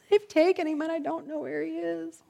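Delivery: high, choked, falling to a near-sob; crying Mary. Retold or imitated. Mary weeping at the empty tomb, choked up. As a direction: grief catching in her throat. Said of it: "she's crying and carrying on".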